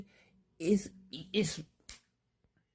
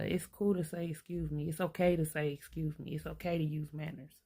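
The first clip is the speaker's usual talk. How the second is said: polite gentle reminder. Shown as a demonstration. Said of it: "I say it just like that".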